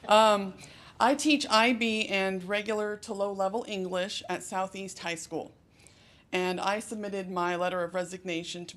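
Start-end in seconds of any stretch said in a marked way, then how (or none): 0.1-5.5 loud, projecting classroom voice; teacher voice. Real, not acted. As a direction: carry to the back row of a classroom. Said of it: "I'm probably a little loud".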